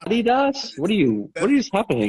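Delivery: high, shocked disbelief; mock outrage at the word; incredulous shock. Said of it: "And I was like".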